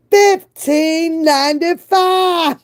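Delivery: slow, high disbelief at the price; stunned reveal of the price; shocked. Real, not acted. Vlogger reading the car payment, shocked.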